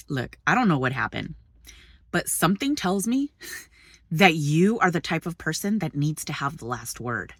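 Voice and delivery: low, softened, measured retelling; calm husband. Retold or imitated. Husband confronts the man who wants the last word, calmly. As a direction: imitate a husband levelly making his point.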